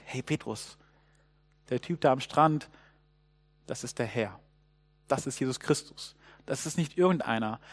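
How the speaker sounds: hushed, confiding undertone; acted whisper. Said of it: "flüstert jemand Petrus etwas zu".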